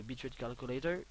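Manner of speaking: Bitrate Calculator in a jokey mock English accent. Vlogger reading a menu item aloud in mock English accent. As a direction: read Bitrate Calculator like a hammed-up English speaker. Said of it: "Mon super accent anglais".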